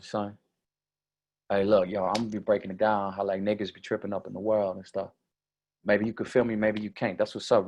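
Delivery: casual hip-hop street talk; lightly put-on street cadence, easy and rhythmic; street slang speaker. Shown as a demonstration. Showing how first impressions judge smarts, casual street talk. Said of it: "I talk like this".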